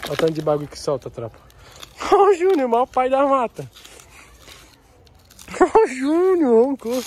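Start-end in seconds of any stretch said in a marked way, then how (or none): 1.7-7.1 high laughing tease. Real, not acted. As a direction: giggle while mocking a friend. Laughing at friend. (zoando o amigo, rindo alto)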